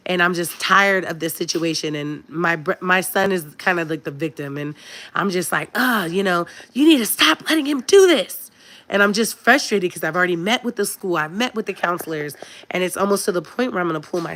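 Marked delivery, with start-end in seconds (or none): 5.8-8.4 sharp, high and loud at her son; raised voice. Retold or imitated. Mother raising her voice at her son in the car, frustrated and loud. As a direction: snap at him in the car, higher and louder. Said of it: "I raised my voice at him".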